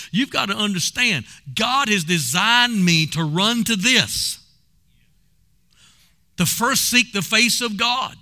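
high, driving revival preacher; punchy Southern pulpit delivery; fervent preaching. Real, not acted. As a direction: drive the point home to the congregation. Preaches exhortation to congregation.

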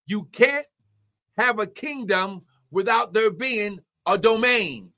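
measured, weighted pulpit teaching; emphatic preaching. Real, not acted. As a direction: set down each phrase for the congregation. Preaches a definition.

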